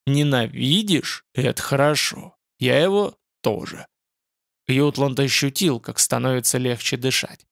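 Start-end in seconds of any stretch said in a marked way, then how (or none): 0.1-3.9 roaring demon voice. Acted. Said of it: "Голос страшно проревел". (страшный рёв демона)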